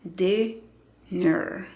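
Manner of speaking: DINNER in two slow, evenly weighted syllables; slow teaching demo of dinner. Shown as a demonstration. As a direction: sound out DIN, pause, then NER.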